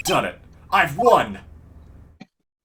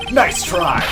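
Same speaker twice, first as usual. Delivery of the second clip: louder, punchier repeat; louder emphatic; 3 semitones higher, 5 dB louder than usual. Shown as a demonstration. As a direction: say it again with force.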